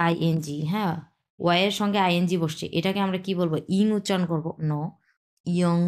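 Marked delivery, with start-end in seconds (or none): 5.5-5.8 ইয়ং as one smooth slide; sliding pronunciation. Shown as a demonstration. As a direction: glide from i through to ng in ইয়ং. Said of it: "একবার স্লাইডভাবে". (স্লাইড করে ইয়ং)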